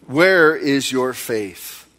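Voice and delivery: gentle rebuke. Acted. Jesus gently rebukes disciples.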